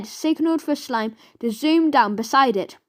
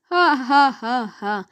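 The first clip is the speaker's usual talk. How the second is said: mocking "ha ha", falling away; acted storybook cackle; burst of laughter; slower than usual. A narrator's reading. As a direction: laugh in their victim's face. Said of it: "burst out laughing".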